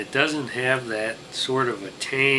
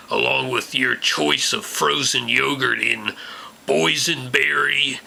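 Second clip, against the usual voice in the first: put-on Tarnation Bob old prospector; 5 dB louder than usual. Holds hick conductor character voice.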